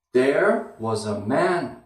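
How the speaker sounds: slow beat with was a dropped low; down down up rhythm. Shown as a demonstration. Teacher modelling the rhythm of the phrase, stress on there and man. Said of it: "One, down, down, up".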